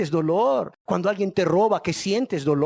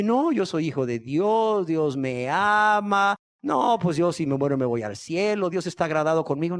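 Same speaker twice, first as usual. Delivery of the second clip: lightly mocking self-assured churchgoer; lightly put-on voice of a self-satisfied believer; imitating complacent sinners. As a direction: stretch the vowels in mild mockery. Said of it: "la gente ahí, ¿verdad? Que anda en pecado, dice".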